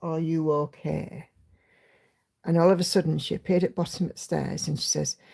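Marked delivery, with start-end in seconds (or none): 0.0-1.3 very quiet, soft, barely audible voice. Retelling calling down from the top of the stairs, in a very quiet voice. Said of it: "I just said in a very quiet voice".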